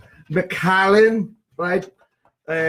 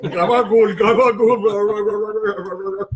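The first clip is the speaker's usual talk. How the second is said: mock Italian; 4 semitones higher, much slower than usual. Repeating funny nickname.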